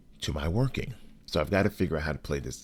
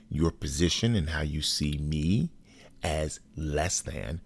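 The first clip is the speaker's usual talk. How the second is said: measured, deliberate, pausing between phrases; clear and serious. Retold or imitated. Telling the partner he is a racist, clear and dead serious. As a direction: lay it out firmly without raising your voice. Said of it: "with all clarity and all seriousness, I said".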